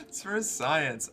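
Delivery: slow, drawn-out repeat of the line; slow echo. Pretend. Repeating the friend's joke, slow and deliberate. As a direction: savour each word slowly. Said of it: "echoes friend's line".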